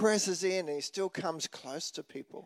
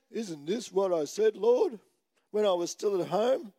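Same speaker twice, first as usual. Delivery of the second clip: whiny Jonah. Retold or imitated. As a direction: whine it out to God. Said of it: "I think that's how he said it too".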